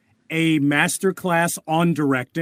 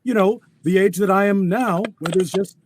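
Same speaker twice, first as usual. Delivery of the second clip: a hint of age and more texture; old Static Shock. Shown as a demonstration. Voice actor answering back as the older hero, lightly aged voice. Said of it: "answer back in the old voice".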